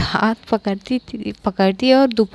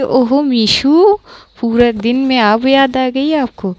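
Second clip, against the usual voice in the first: teasing sarcasm; 2 semitones higher, 4 dB louder than usual. Acted. Maisha taunts Pankhuri for remembering her only now, teasing sarcasm. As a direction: tease with a stretched, raised opening. Teasing mock surprise at partner.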